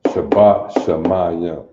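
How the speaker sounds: "Shabbat Shemayim" slowly as shuh-BAH shuh-MAH-yuh, falling; Hebrew recitation. Shown as a demonstration. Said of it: "The Lord's Prayer".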